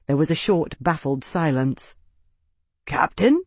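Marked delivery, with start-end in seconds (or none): 2.8-3.4 surprised whisper. Acted. Guard recognizes his captain.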